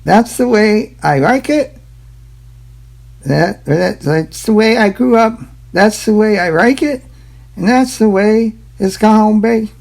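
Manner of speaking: high, loud, hammed-up fake Chinese accent; a deliberately bad put-on Chinese accent; terrible mock Chinese accent. To viewers, a self-mocking bad Chinese accent. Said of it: "It is so bad it's funny".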